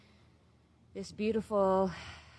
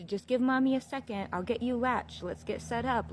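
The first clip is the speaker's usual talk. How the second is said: higher-pitched mommy talk; mom to baby; 5 semitones higher than usual. Retold or imitated. Mother asking hungry newborn to wait a second, coaxing. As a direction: coax a waiting baby, pitched up. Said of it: "there's moments when I'll tell him".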